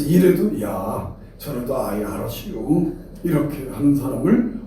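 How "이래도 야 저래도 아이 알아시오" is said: put-on low, mild Chungcheong-accented agreement; imitated Chungcheong yes-man. Preacher mimics a spineless agreeable person, low Chungcheong drawl. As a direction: go along meekly in Chungcheong dialect. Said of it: "충청도 사람들 입장에서".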